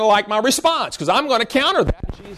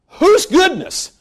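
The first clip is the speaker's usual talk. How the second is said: higher, slow "Whose goodness?"; slow, rising mock question; pointed retort; 6 semitones higher, much slower than usual. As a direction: draw it out as a challenge.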